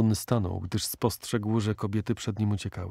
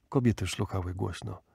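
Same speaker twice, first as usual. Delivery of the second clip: ordinary delivery, nothing marked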